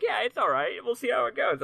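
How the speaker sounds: put-on high, light girl's voice; high girly voice. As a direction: lift it up into a bright girly voice. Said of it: "She's like".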